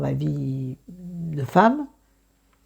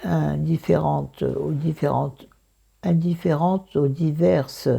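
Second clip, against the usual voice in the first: croaky just-woke-up voice; morning voice. Real, not acted. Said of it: "Excusez ma voix".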